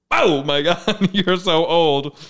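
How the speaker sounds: laughing mock shock; astonished reaction. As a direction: act out amazed disbelief. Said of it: "and I was like".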